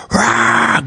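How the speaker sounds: unvoiced breathy roar; crowd roar. Shown as a demonstration. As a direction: imitate a roaring crowd. Imitates crowd's top-scale reaction.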